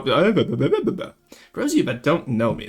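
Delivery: "For those of you that don't know me" restarted slowly and deliberately; "For those of you that don't know me" at half speed, like a fresh take. Shown as a demonstration. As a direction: start over, slow and clear.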